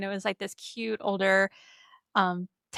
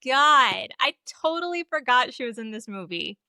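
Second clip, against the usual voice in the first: surprised realisation; 5 semitones higher, 4 dB louder than usual. Retold or imitated. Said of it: "And then I was like".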